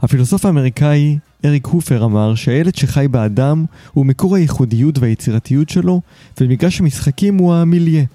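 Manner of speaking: polished, articulate host introduction; podcast intro read. Acted. Host introduces his guest to listeners, scripted intro read. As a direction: present the show and guest from a script.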